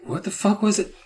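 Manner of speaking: high, slow mock exasperation with a sigh; lightly voiced writer giving up on naming; exasperated author. The author inventing the band name, mock exasperated. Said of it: "And he just, like".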